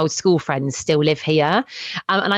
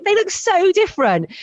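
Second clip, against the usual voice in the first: mock amazement; 11 semitones higher than usual. Acted reaction to old classmates' photos.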